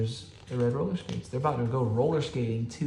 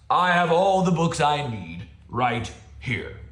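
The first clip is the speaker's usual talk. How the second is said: grumpy bear; 4 semitones higher, 5 dB louder than usual. Acted. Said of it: "Bear announced".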